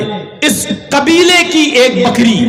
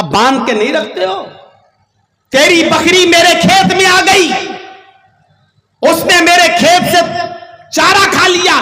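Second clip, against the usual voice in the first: raised higher, scolding the neighbour over his goat; a preacher acting out an irate farmer, pitched up; angry scolding farmer; 5 semitones higher than usual. Farmer scolding the goat's owner for letting it graze, angry raised voice.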